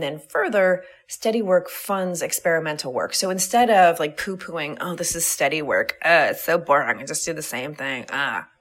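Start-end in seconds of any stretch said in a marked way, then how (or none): 4.8-8.5 bored, lower-pitched bitchy whine; poo-poo it with bitchy disdain. Acted. Poo-pooing her steady work as boring, bitchy. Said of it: "doing that in a really bitchy voice".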